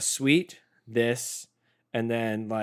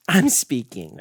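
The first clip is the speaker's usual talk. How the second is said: laughing; 2 semitones higher, 7 dB louder, much slower than usual. Real, not acted. Laughing while scolding partner.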